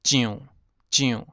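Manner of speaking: 蒋 as "tsiúnn", nasalised; Hokkien reading. Shown as a demonstration. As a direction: say 蒋 as Hokkien "tsiunn". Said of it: "蒋呢就是蒋".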